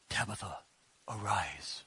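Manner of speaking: low, soft, solemn King James reading. Retold or imitated. Preacher mocking the reverent Bible reading as a hushed King James voice. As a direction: intone it like an old Bible recording. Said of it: "you hear it in the King James voice".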